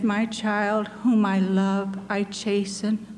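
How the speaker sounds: put-on like a loving father correcting his child; sweet, gentle voice. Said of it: "so sweetly my Lord answered me".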